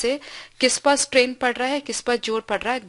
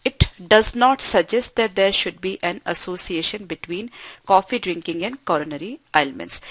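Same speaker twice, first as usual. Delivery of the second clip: each word spaced out slowly for the class; slow dictation reading; much slower than usual. Shown as a demonstration. Teacher reading an example sentence to students, slow and deliberate.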